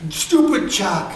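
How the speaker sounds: put-on high inner voice; Vic Mignogna. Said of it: "it was Vic Mignogna's voice".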